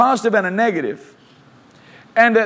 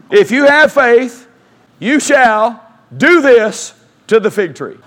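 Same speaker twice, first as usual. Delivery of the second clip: slow, louder preaching declaration; proclaimed verse; 5 dB louder, slower than usual. Real, not acted. Preacher declaring the verse to church, slow and loud. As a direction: proclaim it slowly to the congregation.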